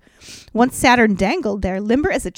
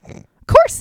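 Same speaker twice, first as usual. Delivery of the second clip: eager; 9 dB louder than usual. A narrator's reading. Narrated cocky answer.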